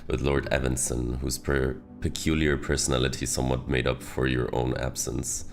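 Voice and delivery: put-on reading a letter in British accent; best British accent. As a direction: put on your best British for a thank-you note. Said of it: "gonna give it my best British accent".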